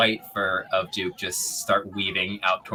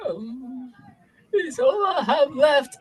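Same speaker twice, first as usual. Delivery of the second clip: clinging vole; 4 dB louder, slower than usual. Acted. Vole voice, ship talk.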